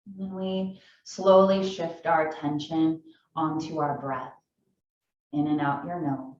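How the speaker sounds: calm yoga teacher guiding a seated class; guided meditation. Acted. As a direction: ease them into stillness, unhurried.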